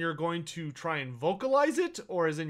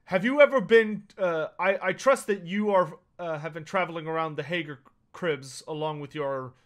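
loud, probing dwarf questions; a dwarf lord loudly quizzing the traveler; dwarf lord questioning; 3 dB louder than usual. Acted. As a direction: press them hard like a suspicious dwarf lord. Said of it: "turns his attention upon you and says".

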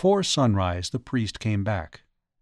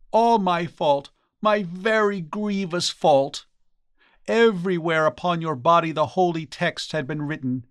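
remorseful exclamation; 5 semitones higher than usual. Acted. Priest blaming himself for his friend's wounds, remorseful exclamation. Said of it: "the priest exclaimed".

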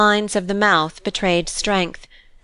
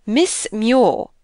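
"Miss Muir" called out as a measured introduction; servant's announcement; 3 semitones higher than usual. A narrator's reading. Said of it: "announced a servant".

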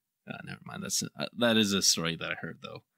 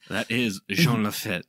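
put-on French accent; 4 semitones higher, 5 dB louder, slower than usual. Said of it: "French accent we could come up with".

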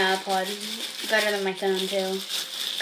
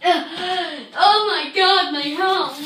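laughing; 6 semitones higher, much slower than usual. Real, not acted. Laughing after gagging.

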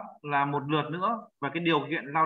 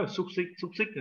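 chuckling through the word xúc xích; amused echo of xúc xích; laughing at the reading; laughing repeat; 5 dB quieter than usual. Real, not acted.

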